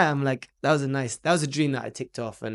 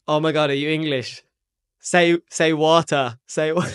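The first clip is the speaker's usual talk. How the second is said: loud, higher mock fangirl pleading; excited begging; 4 semitones higher, 8 dB louder than usual. American girls beg the Englishman to speak, excited. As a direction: imitate giddy fans egging someone on.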